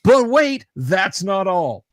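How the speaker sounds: high, loud mock proclamation, slowing at the end; great warrior poet. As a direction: declaim it like a grand quote. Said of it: "to quote, uh, the, the great warrior poet".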